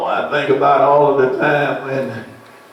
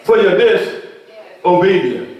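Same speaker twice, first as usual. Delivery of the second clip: preached warning; 7 semitones higher than usual. Retold or imitated. Preacher quotes himself warning.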